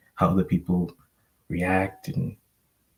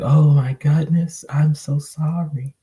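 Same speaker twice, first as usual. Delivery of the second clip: shocked sorry whisper; 7 semitones higher, 5 dB louder, slower than usual. Retold or imitated. Friend shocked and apologetic.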